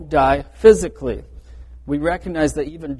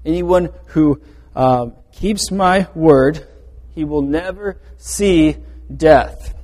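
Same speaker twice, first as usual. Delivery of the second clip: each word drawn out slowly; drawn-out solemn emphasis on "never see death"; slow and deliberate; 4 dB louder, slower than usual. Shown as a demonstration. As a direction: lean on "keeps my word" slowly. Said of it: "I assure you of this truth".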